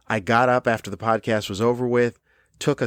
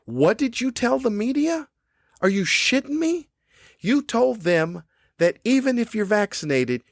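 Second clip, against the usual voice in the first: high, incredulous chewing-out of a staffer; furious disbelief; 4 semitones higher than usual. Retold or imitated. CDC head tearing into a staffer, high incredulous outrage. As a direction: berate them like a boss who can't believe it. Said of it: "the head should have gotten the reins and went".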